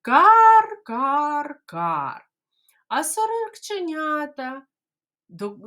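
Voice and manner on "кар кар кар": loud high caws, fading; cawing crow again. Shown as a demonstration. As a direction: caw like a crow, loud then falling. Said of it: "Як?".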